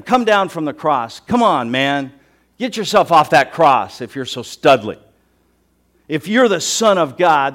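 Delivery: loud, jeering challenge; crying out taunts. Acted. Crowd daring Jesus to leave the cross, crying out. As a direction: hurl the dare at him. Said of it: "were crying out, hurling at him".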